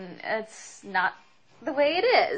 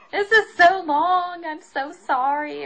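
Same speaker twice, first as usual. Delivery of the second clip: high whining apology; exasperated apology; 9 semitones higher, 9 dB louder than usual. Real, not acted. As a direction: cry out in mock despair. Apologetic exclaim.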